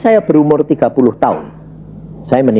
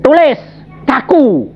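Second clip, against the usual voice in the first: anguished cry; 10 semitones higher, slower than usual. Retold or imitated. Student frozen in the exam, crying out high. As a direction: cry out the helpless moment.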